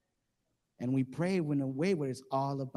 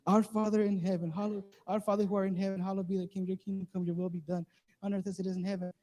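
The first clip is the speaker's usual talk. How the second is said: hurried, desperate recital by heart; frantic rote prayer; 3 semitones higher than usual. Retold or imitated. Movie character praying as death nears, frantic recital. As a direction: rattle off the prayer in a mock panic, raised pitch. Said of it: "they just start saying this over and over".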